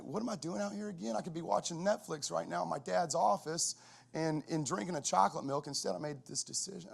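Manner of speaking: a hint of a child feeling sorry for himself; lightly voiced miserable kid. Son wondering why he's out dragging sleds, lightly imitated complaint. Voicing son's miserable thoughts.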